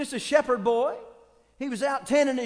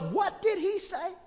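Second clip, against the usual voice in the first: surprised; 7 semitones higher, 4 dB quieter, slower than usual. Retold or imitated. David hears the taunt.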